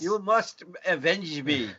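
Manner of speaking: slow, mock Scottish plea; a hint of a Scottish mentor; Scottish accent. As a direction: beg for revenge in a jokey Scottish lilt. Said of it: "Karate Kid was done in a Scottish accent".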